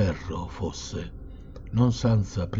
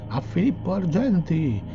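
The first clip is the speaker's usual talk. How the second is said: jeering crowd cry, pitched way up; crowd shouting; 10 semitones higher than usual. A narrator's reading. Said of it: "Tutti gridavano".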